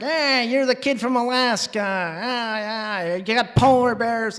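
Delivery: loud, high, boisterous New York uncle; yelling uncle. Retold or imitated. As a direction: holler a big excited greeting as the uncle. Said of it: "suddenly starts yelling and talking".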